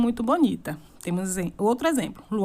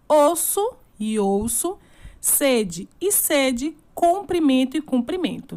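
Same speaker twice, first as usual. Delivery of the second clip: slow careful reading; slower than usual. Shown as a demonstration.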